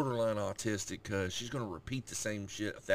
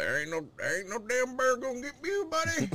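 high, louder protective dad voice; a dad promising the little dog she's safe; dad talking to dog; 5 dB louder than usual. Retold or imitated.

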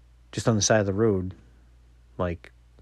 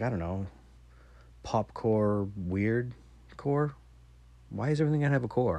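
unsure daughter; 3 semitones higher than usual. Retold or imitated. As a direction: mimic the kid losing patience with labels. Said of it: "She's like".

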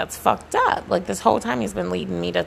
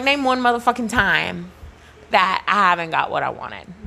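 defiant repeat of the challenge. Retold or imitated. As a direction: push the demand harder, punching each word. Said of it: "So I'm like".

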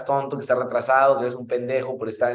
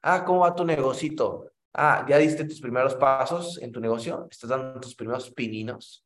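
mocking. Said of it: "se burló una vez de mí y me dijo".

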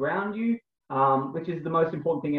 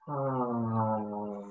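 breathy ah exhale; 4 semitones lower, 7 dB quieter than usual. Shown as a demonstration. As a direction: open ah on the out-breath. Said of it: "breathing out through your mouth".

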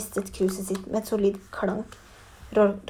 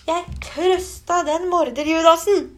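slow, much higher and louder roar; 6 semitones higher, 6 dB louder, slower than usual. A narrator's reading. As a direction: bellow it out slowly in fury. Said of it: "brølte Gygrid".

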